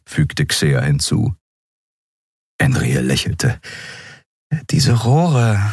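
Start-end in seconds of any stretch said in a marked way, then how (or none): none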